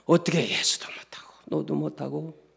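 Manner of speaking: hushed, breathless whisper. Retold or imitated. Preacher telling of the trapped child, whispered. Child torn, can't answer.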